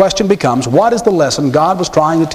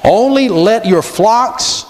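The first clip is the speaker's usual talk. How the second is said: Pharaoh's condition; 2 semitones higher, slower than usual. Retold or imitated. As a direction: drag out the catch with royal slyness. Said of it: "Now watch".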